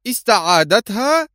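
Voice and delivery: a very high shocked question; horrified cry. A narrator's reading. The lawyer hearing the girl was taken back: horrified high cry. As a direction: cry out in dismay. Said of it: "هتف آل في ارتياع".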